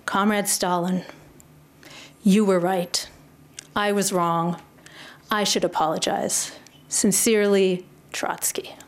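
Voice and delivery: measured statements with falling endings; matter-of-fact apology read aloud; straight telegram reading. Acted. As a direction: read it as a plain confession, pausing after each sentence. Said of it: "I'm gonna read the telegram out loud".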